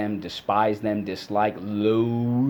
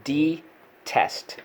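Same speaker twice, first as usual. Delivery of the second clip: called model word; 6 semitones higher than usual. Shown as a demonstration. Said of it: "Let's go".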